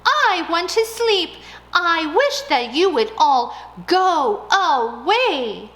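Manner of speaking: high, loud and slow; desperate shout. Acted. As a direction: beg them loudly to leave. Mouse shouting at crickets.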